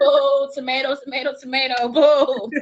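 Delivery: loud laughing boo chant; silly booing. Real, not acted.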